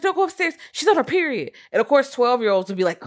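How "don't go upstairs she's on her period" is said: high-pitched put-on boy voice; mock excuse-making. Podcaster imitating boys covering for themselves to Ricky, high mock voice.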